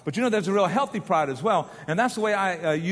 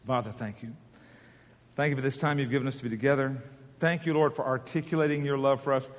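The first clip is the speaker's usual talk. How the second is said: prayer; 2 semitones lower than usual. Real, not acted. Closing prayer.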